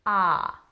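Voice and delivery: "ah" long and open. Shown as a demonstration. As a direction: let the "ah" ring out. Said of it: "So it's".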